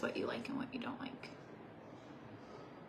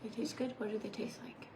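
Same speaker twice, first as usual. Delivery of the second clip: soft unvoiced whisper; 5 dB quieter than usual. Real, not acted. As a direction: whisper the question.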